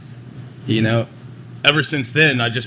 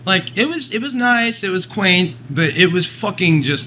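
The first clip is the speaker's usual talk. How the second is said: higher, exasperated complaining; high exasperated rant; 6 semitones higher than usual. Real, not acted. Complaining about a Colorado trip, higher and exasperated. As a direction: whine it, fed up.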